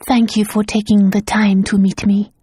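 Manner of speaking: almost voiceless, barely above breath; whisper. Acted. Governess whispers her thanks to the lord.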